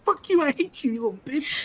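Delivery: high, hammed-up shrieking mother; mock angry mom. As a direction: spit it out like a furious mom. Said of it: "And she's like".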